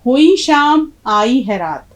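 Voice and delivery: slow poem recitation. Shown as a demonstration. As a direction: declaim the couplet to close the lesson. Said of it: "तो अब देखिए".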